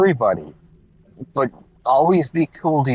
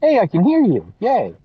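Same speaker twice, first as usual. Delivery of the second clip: muffled; 5 semitones higher, much faster than usual. Real, not acted. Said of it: "you're maybe muffled in a car".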